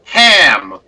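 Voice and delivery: one-word attempt at an American accent. Colleague posing as an American before the guard, mock American accent. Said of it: "I'm going to be using my American accent".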